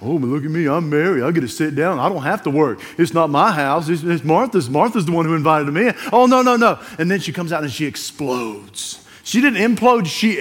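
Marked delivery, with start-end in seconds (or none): 0.0-6.8 mock self-pity. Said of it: "That's that self-pity".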